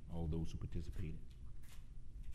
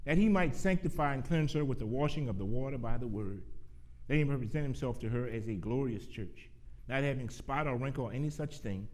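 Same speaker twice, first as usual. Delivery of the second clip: measured pulpit reading with pauses between phrases; scripture reading; 5 semitones higher, 4 dB louder than usual. Real, not acted. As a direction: read the verse out to a congregation, easing down at the close. Reads Bible verses aloud to congregation.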